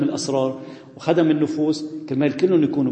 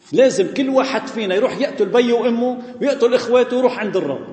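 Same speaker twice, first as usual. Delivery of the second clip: laughing; 7 semitones higher than usual. Real, not acted.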